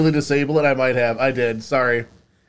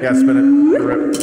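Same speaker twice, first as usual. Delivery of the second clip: excited shout; 10 semitones higher, 5 dB louder, slower than usual. Real, not acted. Excited call to spin.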